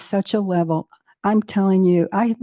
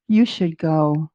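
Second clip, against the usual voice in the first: slow, lower gentle nudge; little inner voice; 4 semitones lower, slower than usual. Retold or imitated. Her inner voice urging her to Mexico, slow and low. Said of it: "this little voice says again".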